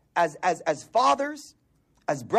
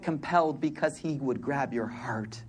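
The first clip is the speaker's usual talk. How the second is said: hushed whisper; 6 semitones lower, 6 dB quieter than usual. Real, not acted. Preacher whispering a truth to the congregation, hushed. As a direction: whisper it like a secret of the heart.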